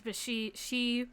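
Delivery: ordinary delivery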